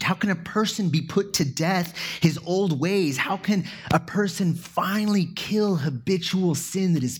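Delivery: earnest, heightened pleading questions; rising, earnest questions. Shown as a demonstration. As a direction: ask it like a man truly searching. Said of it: "It's a loaded question".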